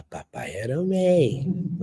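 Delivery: put-on slow, high toddler line; little daughter's voice. Toddler daughter answering her father, slow and high. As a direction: say it slowly like a two-year-old. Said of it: "Ela fala".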